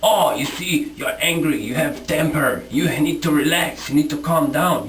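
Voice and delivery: parroting critics in a preachy, patronizing tone; smug imitation of someone telling you to calm down; mocking condescension. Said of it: "so that you can say".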